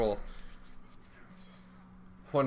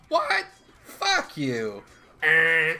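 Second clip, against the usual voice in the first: much higher, sudden yelp of surprise; startled shriek; 3 semitones higher, 6 dB louder, much slower than usual. Real, not acted. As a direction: shriek it in disbelief. Startled by in-game fine.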